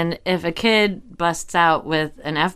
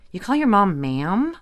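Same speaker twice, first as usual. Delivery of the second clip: mild retold disbelief, slowing at end; incredulous; 3 semitones higher than usual. Student quizzing dorm friend about ma'am, incredulous retelling. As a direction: query it, then draw out the verdict. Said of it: "what, really?".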